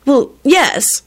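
high, mildly irritated retort; irritable. A narrator's reading. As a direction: answer with testy emphasis on yes. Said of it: "she responded irritably".

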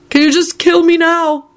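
high, pleading blurt; muffled blurt. A narrator's reading. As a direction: blurt it from under a table. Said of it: "Neville's muffled voice blurted out".

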